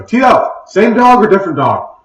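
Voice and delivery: high, loud call over a crowd; yell. Acted. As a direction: yell across the room to a friend. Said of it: "jump over the crowd and yell to Tito".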